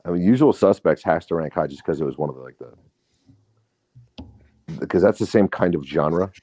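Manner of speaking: muffled, phone in a pillow; muffled bass only. Real, not acted. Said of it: "You just, you sound muffled".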